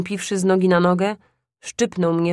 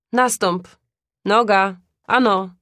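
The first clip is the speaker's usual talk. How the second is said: zawołanie; 5 dB louder than usual. Acted. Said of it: "zawołał".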